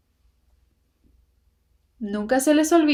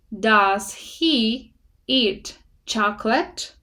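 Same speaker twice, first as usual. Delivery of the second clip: slow model reading; much slower than usual. Shown as a demonstration. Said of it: "first reading of the example sentence".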